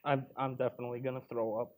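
low, quiet, hurried queasy voice; nauseated horror. Acted. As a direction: rush it out before retching. Nauseated, about to vomit.

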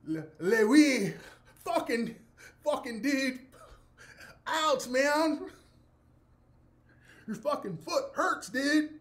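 high, loud fake French with cursing; bad French accent breaking character; mock French. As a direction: ham up a French actor in pain. Actor in fake French, hurt.

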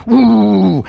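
drawn-out, loud "ooh"; mock charging whoop; imitated charging noise. Preacher imitating a prophet charging with iron horns, long loud ooh.

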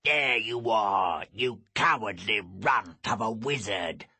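slow, loud villain's hail; booming. A narrator's reading. Enemy hails the wizard from atop the dune, booming. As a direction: boom a taunt down from a height. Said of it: "boomed a voice from atop the dune".

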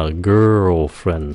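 put-on girlfriend said slowly, the voice going down; girlfriend falling. Shown as a demonstration. Teacher models the correct falling girlfriend. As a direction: drop the voice through girlfriend. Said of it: "xuống giọng".

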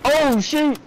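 startled yelp. Real, not acted. Sudden alarm in firefight.

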